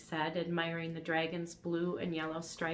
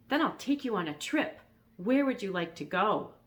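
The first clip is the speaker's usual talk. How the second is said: gentle dragon voice; 2 semitones higher, 3 dB louder than usual. Acted.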